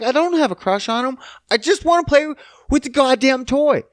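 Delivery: put-on high, whiny little girl voice; mock tearful kid; upset daughter. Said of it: "broke down crying 'cause she's like".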